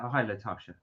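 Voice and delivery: low, soft American-style greeting; American accent. Shown as a demonstration. Co-host trying out the girl's name, American accent. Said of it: "you're saying it with an American accent".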